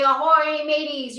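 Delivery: hearty mock pirate call; pirate greeting. Teacher leads the kids in a playful pirate hello. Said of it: "Be a pirate. Say".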